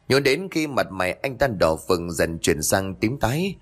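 plain reading voice

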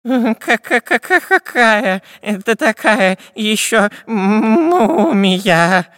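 high, slow scared stammer; stuttering with fear. Acted. The spy asks about the mummy, scared stammer. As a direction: stammer in fright. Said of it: "заикаясь от страха".

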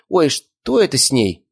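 high, slow startled question; oh, puzzled and taken aback; surprised lady. A narrator's reading. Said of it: "удивилась дамочка".

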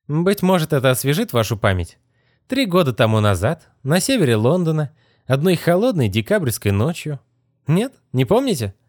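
a hint of a sneering young wizard; smug young wizard. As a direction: toy with her, amused and dry. Wizard recalls the incident.

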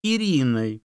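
high, eager little fox; a sly fox asking sweetly. A narrator's reading. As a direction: fox asks the bear for a name, high and eager. Fox asks bear in story.

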